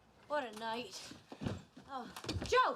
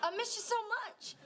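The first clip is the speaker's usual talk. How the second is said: put-on old Southern woman. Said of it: "why is she talking like an old Southern woman".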